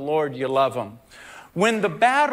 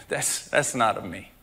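quiet voice of God; 8 semitones lower, 4 dB quieter than usual. Retold or imitated.

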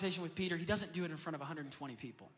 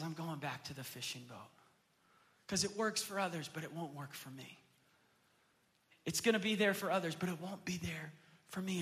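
despairing Peter. Acted. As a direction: let the hope drain out to a whisper.

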